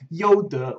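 "Youde" said as yo-duh; Chinese pronunciation. Shown as a demonstration. Host translating the company name, "Youde" pronounced yo-duh. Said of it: "which is how you pronounce Yudi".

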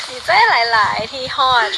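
each word drawn out slowly; slow, deliberate redo. Shown as a demonstration. Thanking viewers again, slow and deliberate.

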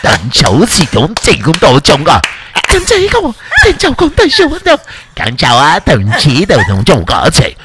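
mock kung fu movie Chinese, building to a shout; fake kung fu Chinese. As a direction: play a kung fu master scolding a student. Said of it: "But I can fake the Chinese".

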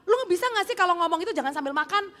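hammed-up telling off for eating; mock angry scolding. Rude woman scolding her seatmate for eating, mock anger. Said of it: "Cewek ini marah lagi".

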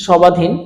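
সবাধীন with ব fully sounded; wrong pronunciation. Shown as a demonstration. Teacher asking if we ever say this, wrong pronunciation. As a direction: say সবাধীন as sho-ba-dhin, questioning. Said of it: "আমরা কি কোনো ব".

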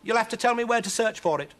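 high, loud, insistent witch; crying out. Acted. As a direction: demand it urgently at a high pitch. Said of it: "cried Huddle".

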